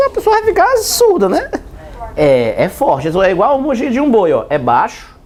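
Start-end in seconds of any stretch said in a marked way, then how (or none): 0.1-1.5 high, excited pupil answer; student voice. Acted. (voz aguda de aluno empolgado)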